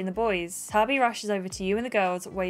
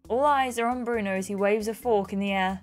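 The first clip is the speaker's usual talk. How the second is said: lightly voiced Bruno, fed up; 3 semitones higher than usual. Bruno's lines in a story game.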